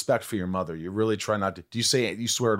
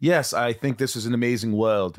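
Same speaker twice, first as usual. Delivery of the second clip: put-on American accent that slips on the word world; imitated accent slip. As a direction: mimic an English actor doing American. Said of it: "everything would be perfect except world".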